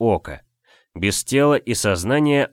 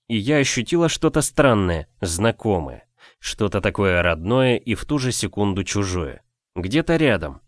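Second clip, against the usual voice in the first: ordinary delivery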